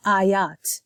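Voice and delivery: ayat with Arabic vowels; Arabic plural. Shown as a demonstration. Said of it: "The plural for ayah".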